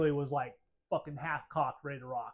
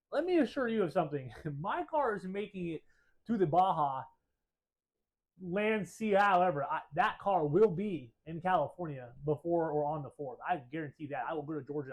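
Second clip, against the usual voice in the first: firm, raised retold promise; determined vow; 4 dB louder than usual. Owner to tow driver, vowing the car makes it. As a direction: lay it down like a guarantee, louder. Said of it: "I said it just like that, and I meant it".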